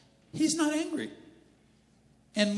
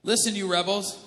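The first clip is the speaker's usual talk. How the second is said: louder stern call to rebels; shouted; 2 semitones higher, 6 dB louder than usual. Acted. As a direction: raise the voice at the crowd. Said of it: "he shouted".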